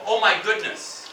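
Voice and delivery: slow, evenly spoken exclamation; model phrase. Shown as a demonstration. Teacher suggesting a phrase to the class, slowly. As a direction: say it slowly for learners to repeat.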